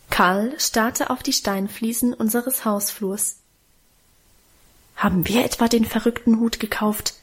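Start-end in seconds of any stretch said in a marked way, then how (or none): none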